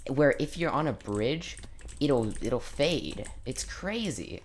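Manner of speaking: imitating an excited kid brother, high and slow; lightly voiced awestruck younger brother; mock brother. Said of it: "he told me".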